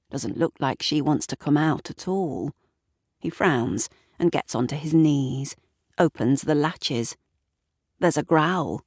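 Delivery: usual speaking voice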